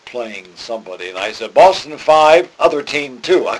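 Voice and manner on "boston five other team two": 방송 실수 흉내; mock announcer blurt. Retelling his on-air score flub.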